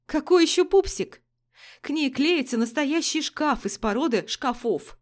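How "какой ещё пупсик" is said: loud, high disbelieving; incredulous outburst on КАКОЙ; возмущённое удивление. Acted. Героиня возмущённо переспрашивает. (изумлённо и громко)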